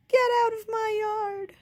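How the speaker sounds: Baby imitates her sister yelling; retold shout. Baby retelling her sister yelling at the pig, imitated shout. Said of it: "she was shouting".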